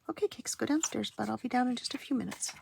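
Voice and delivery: pet talk. Real, not acted. Sending cat downstairs.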